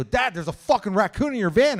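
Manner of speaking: shocked sing-song. Retold or imitated. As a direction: blurt it out in a singsong panic. Shocked son tells dad.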